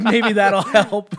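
slow words broken by laughter; laughing through it. Retold or imitated. Doctor advising weight loss, quoted with laughter.

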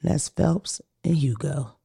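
slow, breathy whispered aside; whispering. Real, not acted. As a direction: whisper it like a secret.

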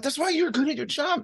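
high-pitched mock cheering-on; mock encouragement. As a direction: squeak out flattery to get out of a chore. Flattering wife to dodge chores.

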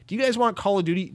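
Ubisoft pushing a game on fans, mock eager; mock eager salesman. Mocking Ubisoft pitch to fans.

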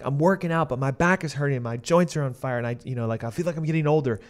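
a touch of whiny griping; mock complaining. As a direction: voice a client's mild complaints. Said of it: "they tend to start complaining".

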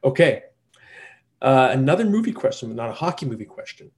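ordinary talk

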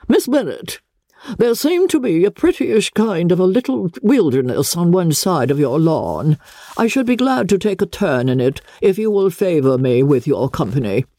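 a hint of a proud aristocrat; haughty Lady Catherine. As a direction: talk down to her from a height.

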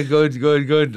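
high, loud boxer imitation; Mike Tyson impression. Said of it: "you have got his voice down well".

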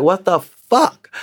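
high, slow, stunned what the fuck; disbelief. Retold or imitated. Recalling the racist woman, a high slow stunned reply. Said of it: "I'm just like".

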